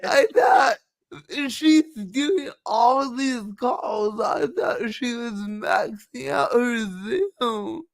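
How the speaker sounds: mock disbelief, feigning surprise; sarcastic. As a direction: play innocently shocked, with sarcasm. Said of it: "That was sarcasm".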